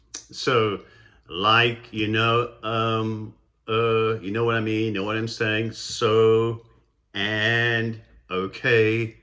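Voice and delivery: level, hesitant string of filler words; vocal fillers. Shown as a demonstration. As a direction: demonstrate meaningless fillers, hanging on each one. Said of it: "vocalized pauses or vocal f-, fillers".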